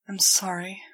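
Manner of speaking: sighing apology. A narrator's reading. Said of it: "I said with a sigh".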